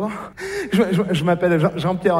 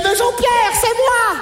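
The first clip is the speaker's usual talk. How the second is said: mock pleading alien; 14 semitones higher, 3 dB louder, slower than usual.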